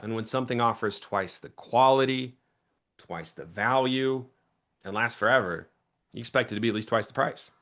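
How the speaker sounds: vary the speed phrase by phrase; varied pace. Shown as a demonstration. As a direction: demo of varied pitch pace. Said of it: "see how there's difference there".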